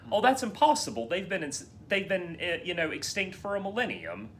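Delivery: high-pitched dismissive council voice; mock dismissal. Host mocking Jedi Council brushing off Qui-Gon, high-pitched dismissal. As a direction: mimic officials brushing off a claim. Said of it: "they're just like".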